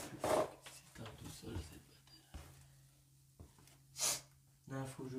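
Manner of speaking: slow frightened whisper; scared whisper. Real, not acted. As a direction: barely breathe it out, spooked. Alone, frightened at investigation.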